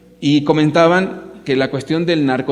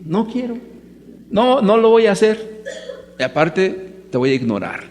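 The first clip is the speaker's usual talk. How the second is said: put-on higher, whiny little-kid refusal breaking into laughter; defiant child; 4 semitones higher than usual. The speaker playing the son refusing his father, whiny child voice. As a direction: pout and refuse like a stubborn small boy. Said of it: "Yo soy el niño".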